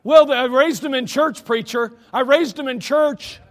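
loud, high insistent protest; a parent defending themselves to the pastor, loud and insistent; defensive parent. Retold or imitated. A parent protesting to the preacher, loud and high. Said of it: "speaking volumes to your kids".

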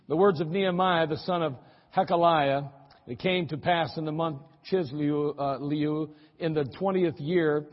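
measured Bible reading; scripture reading. Acted. Pastor reading Nehemiah to the congregation, measured reading. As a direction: read the King James text steadily.

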